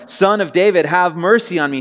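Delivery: crying out. A narrator's reading. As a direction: call out for mercy over the crowd. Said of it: "he cried out all the more".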